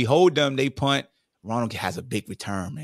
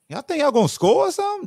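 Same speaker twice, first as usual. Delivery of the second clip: high, loud, quick challenge; mock trash-talk taunt; 6 dB louder, faster than usual. Captain taunting opponents at the coin toss, high mocking challenge. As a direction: taunt them in a raised, incredulous pitch.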